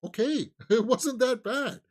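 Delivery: high, loud laughing grudging okay; laughing concession. Retold or imitated. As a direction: admit it wasn't bad through a laugh. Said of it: "I'm like".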